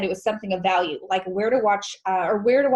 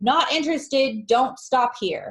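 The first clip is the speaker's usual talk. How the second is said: put-on dismissive yell, high, slow, words spaced apart; 5 semitones higher than usual. Retelling how a neighbour yelled through his window: imitating someone yelling. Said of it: "he yells out his screen window".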